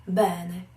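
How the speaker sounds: "bene" leaning on the first e; Italian stressed "bene". Shown as a demonstration. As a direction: lean into the "be" of "bene". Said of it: "lean on the first e".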